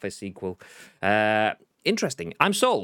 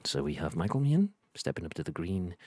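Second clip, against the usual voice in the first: hushed golf commentator; 4 semitones lower, 6 dB quieter than usual. Retold or imitated. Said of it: "more like a snooker commentator".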